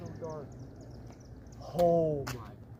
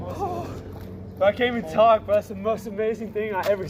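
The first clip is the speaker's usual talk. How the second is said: joyful cry; 7 dB louder than usual. Real, not acted. Overwhelmed by eclipse.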